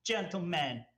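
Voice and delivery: very high, loud opening, dropping after; grand, high-pitched thanks after slamming the glass; Vivi. Acted. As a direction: proclaim thanks in a high character voice. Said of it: "the glass to the counter and says".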